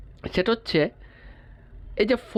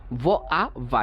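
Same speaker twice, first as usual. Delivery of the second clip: broken into sounds; 2 semitones lower, slower than usual. Shown as a demonstration. Teacher showing where the syllable ends, sound by sound. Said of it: "যেখানে যেয়ে syllable শেষ হবে".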